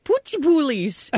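squeaky high read of Poochie poolies; high pitch. Retold or imitated. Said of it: "you gotta say it more, like, high pitch".

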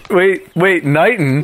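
surprised. Real, not acted. Excited recognition of town.

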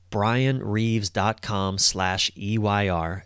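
slow and deliberate, each letter spaced out; careful dictation pace; slow, spelled-out URL. Shown as a demonstration. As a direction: read the web address slowly so listeners can write it down. Spelling out the website address.

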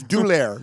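doulaire said as mock French, doo-LAIR; French pronunciation. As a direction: turn dollar into French-sounding doulaire. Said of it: "It's French".

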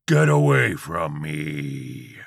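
slow, loud drawn-out yell; screaming. A narrator's reading. Old man fends off George, drawn-out scream. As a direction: bellow it, stretching the words. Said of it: "the Antichrist screamed".

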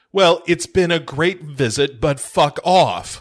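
mock angry dismissal. Acting Malkovich throwing Gary out.

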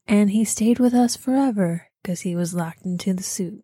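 hushed spooky storyteller whisper; eerie whisper. Acted. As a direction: whisper it like a Twilight Zone ending. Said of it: "Twilight Zone episode".

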